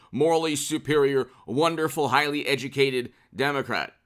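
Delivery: deliberate, sarcastically measured praise; slow mocking delivery. Shown as a demonstration. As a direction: spell it out with mock admiration. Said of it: "Say it slowly".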